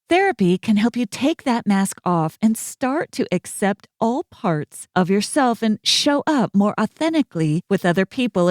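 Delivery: smooth, upbeat sponsor read. Acted. Host reads the BetterHelp sponsor spot: easy ad read. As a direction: sell it warmly but plainly.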